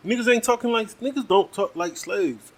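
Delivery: indignant, hammering the point; heated outburst. Real, not acted. Ranting to listeners about the show, indignant and loud.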